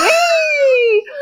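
high gleeful shriek, laughing through it; high-pitched laughing "wee"; retold drunk "wee" scream. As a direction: squeal it like a giddy drunk running around.

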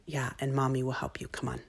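put-on soft whispered comfort to a child; gentle reassurance. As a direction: ease him in gently, almost a whisper. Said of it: "I should have said".

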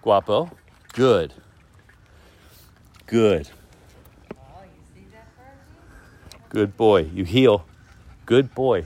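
calm the dog down after a scare; real high-pitched reassuring dog talk; soothing the dog. Real, not acted. Calming the dog during a standoff.

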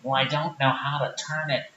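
low-pitched sheepish small-town guy; Rick character. Acted. Rick fumbles the video.

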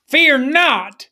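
Fear not called out strong; call to repeat. Shown as a demonstration. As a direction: lead the people in Fear not. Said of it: "say that with me".

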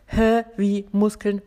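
loud, baffled interjection; puzzled. Acted. Teacher playing a listener puzzled about muscles, baffled. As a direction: blurt it out as if confused.

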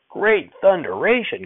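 put-on a flabbergasted old man's yell; grandfather hollering. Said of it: "Grandfather hollered".

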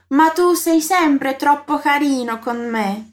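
slow, clearly spaced words; slow model phrase. Shown as a demonstration. Teacher shows a compliment in Italian, slowly. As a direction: lay each word out for the learner. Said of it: "vamos repetir a frase toda".

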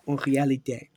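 tentative French pronunciation; attempted French. Shown as a demonstration. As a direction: try it in a French accent. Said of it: "or whatever you say in French".

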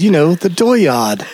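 lightly put-on Maine accent on dooryard; mock Maine accent. Friend mimics a Maine speaker saying dooryard, light Maine accent. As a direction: drop the R, Maine style. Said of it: "and she said".

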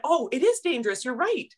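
geese voice. Retold or imitated. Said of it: "They went".

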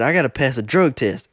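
lightly put-on street accent, words run together; imitation of classmate's accent. Classmate explaining his drug test problem, imitated accent. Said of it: "doing my best imitation of his accent".

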